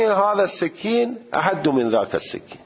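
هذا السکین احد in a high, true Arabic accent. Shown as a demonstration. Teacher showing real Arabic pronunciation. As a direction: say it as a native Arab would. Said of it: "عربی".

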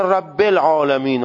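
رب العالمین with the kasra opened to a Persian "e", Rabbel; imitating a Persian reading, short e after رب; Persian pronunciation.

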